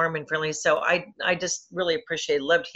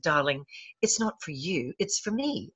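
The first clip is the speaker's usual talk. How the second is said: softer, lightly done British "darling"; a hint of a British lady, quietly; light British accent; 5 dB quieter than usual. Actress gently correcting interviewer about the pillow, light British accent. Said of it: "in her little British accent".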